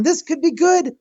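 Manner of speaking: giddy hope running away; retold giddy excitement; excited thinking. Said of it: "I'm thinking".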